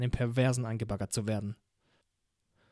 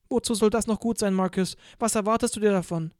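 lightly voiced young woman, higher and fragile; a hint of a girl holding back tears; Van trailing off before she says too much; Van, hurt; 6 semitones higher than usual. Van's held voice, doubting.

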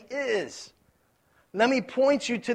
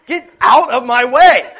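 loud, laughing shout at the driver ahead; a playful angry yell stuck in traffic; mock road rage yell; 4 semitones higher, 14 dB louder than usual. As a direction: yell it half-laughing, fed up. Imagined road rage behind slow driver.

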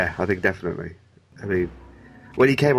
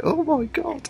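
much higher, shocked oh my God; stunned gasp; slower than usual. Retold or imitated. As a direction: gasp it like you're on the edge of your seat. Gasping at intense Swan scene.

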